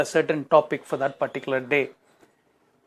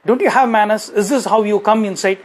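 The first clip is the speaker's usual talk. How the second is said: raised, higher scolding voice; scolding boss; 3 semitones higher than usual. Retold or imitated. Manager scolding Anand for barging into the office, raised. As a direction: rebuke him for barging in. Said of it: "He said".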